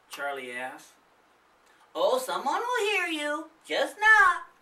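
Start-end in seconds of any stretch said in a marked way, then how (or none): 2.0-4.5 higher, louder teasing push; mock the scared kids; snickering. A narrator's reading. Nathan snickering at his friends, teasing. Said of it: "Nathan snickered".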